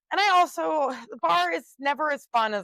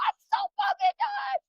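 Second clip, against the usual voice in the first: squeaky, much higher joke voice; inside-joke voice. Retold or imitated. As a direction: toss it off as the family catchphrase. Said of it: "we're like".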